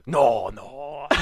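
imitated Asian-accented protest; his date's refusal in a mock Asian accent. Podcaster retelling his date's protest, mock Asian accent. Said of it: "imagine an Asian person saying".

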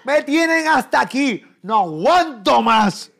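high, loud, slow wailing through laughter; hammed-up exhausted grandma; mock grandma wail. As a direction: stretch it out like a weary grandma. Imitating grandmother, drawn out.

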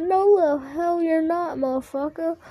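high-pitched mock contradiction; imitated retort. Friends telling him he is not black, imitated retort. Acted quarrel, friends deny it.

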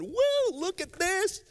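high, excited whoops of a man who can walk again; overjoyed healed man. Retold or imitated. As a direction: burst out like you're dancing a jig. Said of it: "dancing a jig and going home and going".

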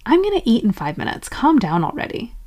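quick, impatient self-command; forceful. Acted. Ordering your hungry self to calm down, impatient. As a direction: hurry out a mildly bossy order. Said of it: "Being forceful would be".

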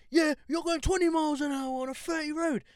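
high-pitched exasperated mock rant; angry driver. Retelling the driver arguing about speed, mock exasperated. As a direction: imitate a motorist arguing back. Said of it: "And he's like".

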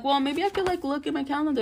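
a hint of a mock annoying self. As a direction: mimic her own fussy hesitation. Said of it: "I'm all like".

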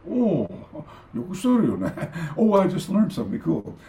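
high, amused realization; delighted to learn; pleased sensei. Retold or imitated. The sensei learns the name, pleased. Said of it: "And he goes".

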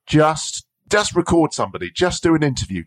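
high, insistent coaxing; imitated urging mentor. Mentor urging her to start.

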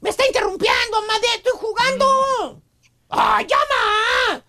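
mock tantrum of an interrupted gamer; hammed-up son complaining to his mother; imitated yelling son. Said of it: "Le gritaba a su mamá".

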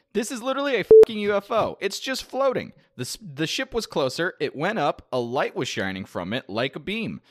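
breathless UFO witness, hammed up; mock astonished bystander; excited witness. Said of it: "he says".

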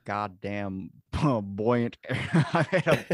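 cracking up while fighting a tongue twister; loud, high, laughing exasperation at each stumble; laughing frustration. Real, not acted.

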